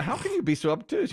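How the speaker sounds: mock indignant quote, leaning on you; a hammed-up movie-line rebuke with you pushed up; stress on you. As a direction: hit the word you, rising high.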